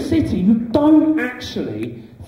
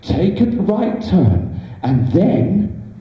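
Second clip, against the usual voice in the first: sat-nav voice. Pretend. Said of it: "does the sat-nav go".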